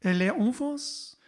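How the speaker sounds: put-on French delivery; French accent, lifted at the end; faux French accent. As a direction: say it in playful mock French. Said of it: "Faux French accent".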